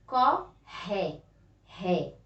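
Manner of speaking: "Corre" split as co-rre, then "Ré" alone, said like "hé"; teacher isolating "Ré" with a throaty h-like R; strong R syllable. Shown as a demonstration. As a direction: separate the syllables, breathing the R in "Ré". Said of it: "O ré é uma pronúncia".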